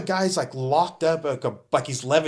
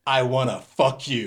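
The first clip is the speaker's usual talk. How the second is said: level, understated delivery without missing a beat; comically deadpan quote; 2 semitones lower than usual. Retold or imitated. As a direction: deliver it matter-of-fact, straight-faced. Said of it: "so comical how he said it".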